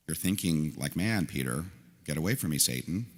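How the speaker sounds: tender rebuke. Pretend. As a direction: rebuke him like a hand on his cheek. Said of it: "put his hand on Peter's cheek".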